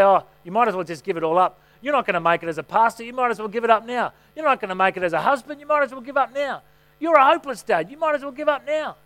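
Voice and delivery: mock tempter sneering, pitch climbing; the devil's taunts. Preacher voicing the devil's lies to himself, a mock sneer. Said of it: "The devil comes in and tries to deceive me and say".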